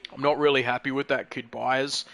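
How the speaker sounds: low mock voice of a fellow racer; bad impersonation of HSV. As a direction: drop into a deep mock impersonation. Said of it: "who I've already done a bad impersonation of tonight".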